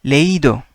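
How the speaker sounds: leído with the í sounded fully as its own vowel; leído, stress on a clearly separate í; emphasized I. Shown as a demonstration. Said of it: "I have to emphasize an I as well".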